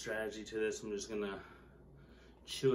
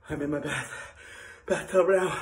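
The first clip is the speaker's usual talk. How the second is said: strained; 6 semitones higher, 9 dB louder than usual. Real, not acted. Suffering in the bath.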